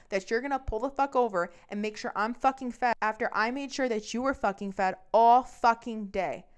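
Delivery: loud, hard-punched swearing tirade; furious rant. Retold or imitated. Girlfriend throwing boyfriend out of her car, furious rant. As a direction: snap and let it build to an outburst.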